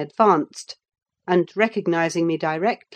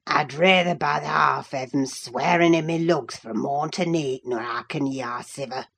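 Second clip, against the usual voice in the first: put-on harsh old servant; 2 semitones lower than usual. A narrator's reading. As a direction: growl it like a sour old servant who hates singing. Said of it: "harsh words of scorn and intolerance, uttered in far from musical accents".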